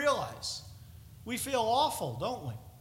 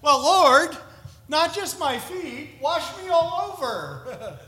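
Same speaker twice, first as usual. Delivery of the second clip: eager Peter; 6 semitones higher, 10 dB louder, slower than usual. Retold or imitated. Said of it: "So he said".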